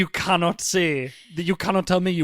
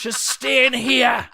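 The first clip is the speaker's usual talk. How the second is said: laughing mock parent; 7 semitones higher, 7 dB louder, much slower than usual.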